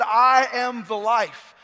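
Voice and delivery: loud and very slow; booming proclamation. Acted. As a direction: ring it out across the room.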